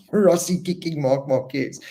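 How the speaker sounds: rereads it with a laugh, amused; amused incredulous reread; laughing disbelief. Real, not acted. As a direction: chuckle through the question in disbelief.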